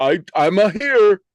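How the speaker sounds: high, loud, slow dopey voice.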